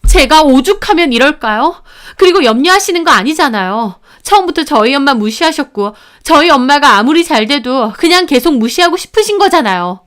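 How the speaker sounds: tearful protest. Acted. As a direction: push back through the tears. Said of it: "저 울면서 따졌고".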